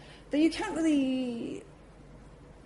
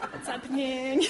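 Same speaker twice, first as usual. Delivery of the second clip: words squeezed out through high laughter; laughing; 5 semitones higher than usual. Real, not acted. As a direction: laugh while asking what's happening. Laughing retold question.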